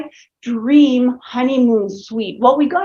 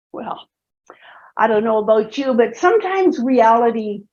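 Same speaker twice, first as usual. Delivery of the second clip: whispered aside to the audience; confiding whisper; 3 semitones lower than usual. Real, not acted. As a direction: lean in and whisper it.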